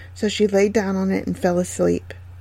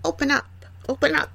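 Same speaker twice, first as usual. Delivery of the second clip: put-on old peddler calling; 5 semitones higher, 6 dB quieter, faster than usual. A narrator's reading. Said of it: "knocked at the door and cried out".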